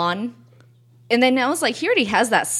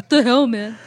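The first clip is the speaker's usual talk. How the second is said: angry text; 3 semitones higher, 5 dB louder than usual. Pretend. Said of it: "a very angry text message".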